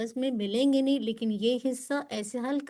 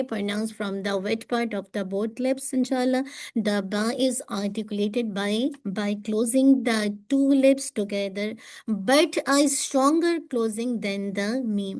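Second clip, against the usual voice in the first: slow reading; much slower than usual. Shown as a demonstration. Slow dictation-style English reading.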